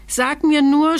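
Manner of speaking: high, alarmed outburst; startled stammer. A narrator's reading. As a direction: blurt it out in fright. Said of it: "stotterte der König erschrocken".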